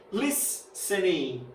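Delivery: "listening" slowly, with the weight on LIS; stress on first syllable. Shown as a demonstration. Teacher showing students a word that is not doubled, first-syllable stress. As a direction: stretch and stress the start of "listening". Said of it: "Se ela for paroxítona".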